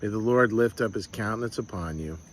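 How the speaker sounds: steady, gentle benediction; blessing. Acted. Pastor blessing the congregation, calm and tender. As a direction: bestow it calmly on the listeners.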